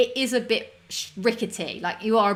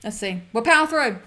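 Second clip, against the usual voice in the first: hiccups; 3 dB louder than usual. Real, not acted. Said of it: "I've got to give myself the hiccups".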